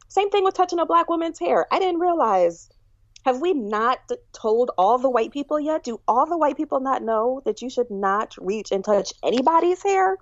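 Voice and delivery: high-pitched incredulous rant; animated, fed-up questioning; exasperated disbelief. Real, not acted. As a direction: protest as if everyone should know this by now. Exasperated rant about hair touching.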